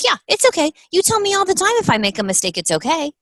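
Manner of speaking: put-on high comforting child voice; little girl's voice. Mother imitating Kayla comforting her, high and sweet. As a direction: sweeten it like a small child soothing Mommy.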